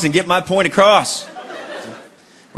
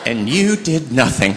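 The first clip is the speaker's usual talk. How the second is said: mock wife scolding; slower than usual. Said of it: "my wife gets mad at me".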